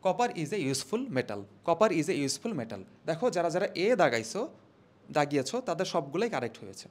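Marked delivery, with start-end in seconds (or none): 0.0-1.4 "Copper is a useful metal" read very slowly; slow answer read. Shown as a demonstration. Teacher gives students the correct answer, slow. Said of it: "তাহলে আমাকে বলতে হবে কি?". 1.7-2.8 "Copper is a useful metal" read very slowly; slow answer read. Shown as a demonstration. Teacher gives students the correct answer, slow. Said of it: "তাহলে আমাকে বলতে হবে কি?".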